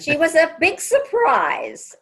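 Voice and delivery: laughing through the line, amused. Real, not acted. Sister telling about a surprise baby, laughing.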